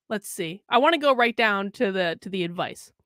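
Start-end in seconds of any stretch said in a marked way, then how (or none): 0.1-0.6 whisper. Real, not acted. Aside while scrolling.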